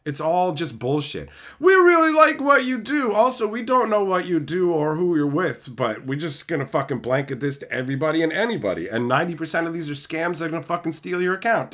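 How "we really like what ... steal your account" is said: mocking marketer. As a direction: parody a middleman circling back.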